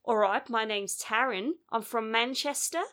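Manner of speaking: mock Manchester accent, badly done; bad English accent. Reviewer mocking a film character's terrible accent, bad English accent. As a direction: imitate an Australian actor's failed English accent. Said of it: "it is the worst English accent I've heard".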